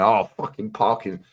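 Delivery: slow, grumbling mock anger; mock seething. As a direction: imitate a driver fuming over parking. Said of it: "fucking seething".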